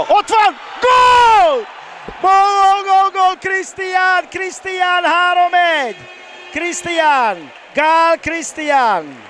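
goal celebration shout. Real, not acted. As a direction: roar the goal out. Goal scored.

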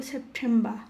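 "সেপ্টেম্বর" ending in "-ba", R silent; correct pronunciation. Shown as a demonstration. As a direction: say "সেপ্টেম্বর" as "sep-tem-ba". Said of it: "তো এটা হবে".

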